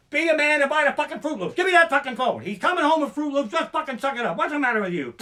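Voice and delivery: loud, high, fed-up tirade; snatch the phone and tear into him; exasperated yelling. Retold or imitated. A fed-up shopper grabbing the husband's phone, yelling loud and high.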